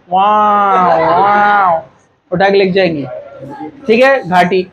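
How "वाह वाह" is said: drawn-out mock siren wail; mock ambulance siren. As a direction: lightly imitate a wailing siren. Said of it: "वो गाड़ी आएंगी सफेद colour की".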